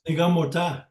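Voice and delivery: teaching the word Nigamota to a class; Anishinaabe word demo. Shown as a demonstration. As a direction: model the word Nigamota syllable by syllable. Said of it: "I'll give you an example".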